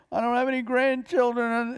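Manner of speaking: high, tear-choked lament; tearful grieving mother. Retold or imitated. Grieving mother forgiving her son's killer, high and tearful. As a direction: voice her loss as if close to tears.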